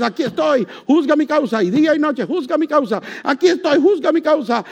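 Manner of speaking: a lightly voiced old woman begging the judge; pleading old woman. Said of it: "le dice al juez".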